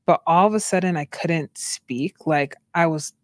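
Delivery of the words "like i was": imitating drugged, drawn-out speech; very slow, stretched imitation; talking slowly. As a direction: drag the words out as if medicated. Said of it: "I was talking so slow".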